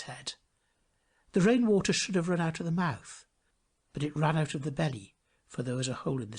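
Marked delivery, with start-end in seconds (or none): none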